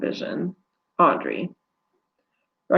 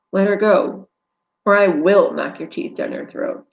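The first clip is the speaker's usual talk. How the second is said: firm, loud threat; angry threat; 4 dB louder than usual. Acted. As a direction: threaten him. Rescuer threatens the attacker.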